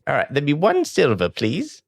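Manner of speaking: high halfling innkeeper; Sylveth. Acted. Innkeeper asking a guest for one silver, high put-on voice. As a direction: raise the pitch for a comic innkeeper. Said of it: "what does Sylveth sound like".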